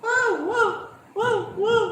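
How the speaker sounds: high, loud string of wows; whooping amazement; amazed shouts. Real, not acted. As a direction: exclaim wow over and over in high-pitched amazement. Amazed exclamations at something.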